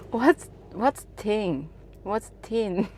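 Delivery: puzzled. Retold or imitated. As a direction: ask it as if totally lost. Puzzled by the misheard word.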